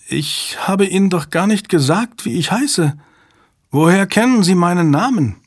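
high, whispered, frightened question; shaky breathless pleading. A narrator's reading. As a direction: start in a scared whisper, then rise. Frightened girl questions him.

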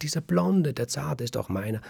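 put-on baker's high, eager cry for his own baby; eager claim. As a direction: claim the child back with relief. Baker claims his blond son.

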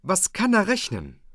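high, loud mock of the fawning dike reeve; father mimics the dike reeve praising the schoolmaster, hammed-up and high. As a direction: ham up the dike reeve nodding along. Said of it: "und sagt".

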